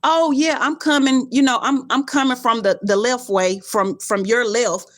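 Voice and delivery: mock the kind of answer she wants; mocking the directions she can't give; mock rider directions. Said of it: "So I can't tell you like".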